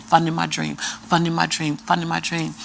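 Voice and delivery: hushed, repeated like a mantra; soft chant of a private motto; softly repeated memo. Retold or imitated. Repeating her check memo line.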